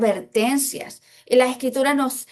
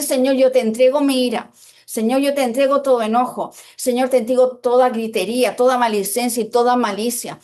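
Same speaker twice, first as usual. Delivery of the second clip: earnest, louder prayer to the Lord; 3 dB louder than usual. Shown as a demonstration. Preacher showing the church how to pray, earnest and louder. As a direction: pray it out, handing each sin over.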